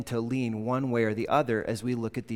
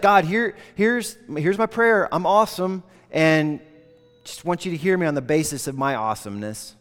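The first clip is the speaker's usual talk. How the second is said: raised, loud smug boasting; mock self-satisfied prayer; smug Pharisee; 3 semitones higher, 5 dB louder than usual. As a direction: puff yourself up like a proud Pharisee.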